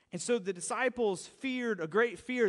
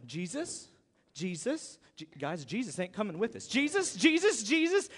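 mock alarm growing; rising panic; 2 semitones lower than usual. Disciples realizing Jesus is not coming, mock panic.

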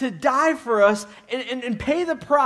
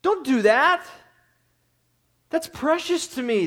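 God's gentle rebuke; 5 semitones higher than usual. Retold or imitated. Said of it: "he goes".

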